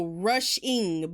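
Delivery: "rushing" said very slowly with the G dropped, like rushin. Shown as a demonstration. Correcting "Russian" to "rushing" for viewers, said very slowly. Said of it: "I realize that sounds like Russian".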